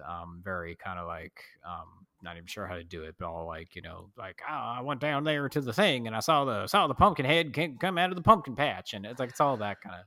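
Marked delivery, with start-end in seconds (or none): 4.5-8.9 a lightly put-on Southern accent, storytelling; hint of a mock Southern local; imitating film characters' Southern accent, lightly; exaggerated Southern accent. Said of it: "talks in a really exaggerated Southern accent".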